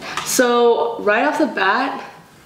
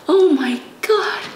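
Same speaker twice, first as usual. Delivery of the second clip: amazed; 8 semitones higher, slower than usual. Real, not acted. Amazed by softest brush.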